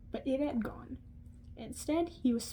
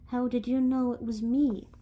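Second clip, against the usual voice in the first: Scottish accent attempt; 4 dB louder than usual. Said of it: "I might butcher this accent".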